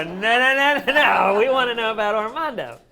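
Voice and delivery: loud, high string of no's; hammed-up insistent outcry; eager protest. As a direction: cry out to halt her, drawn high. Acting out a second, louder protest.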